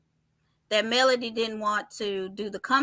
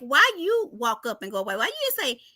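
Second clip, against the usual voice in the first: raised pitch, hammed-up indignant quote; mock advice to Tish; 3 semitones higher than usual. Host voicing what Tish should have said, pitched high. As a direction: talk the cast member through it, mock outraged. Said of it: "And I'm sitting here like".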